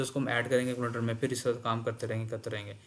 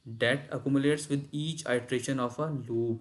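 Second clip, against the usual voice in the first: slow reading; much slower than usual. Shown as a demonstration. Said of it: "rereads the definition".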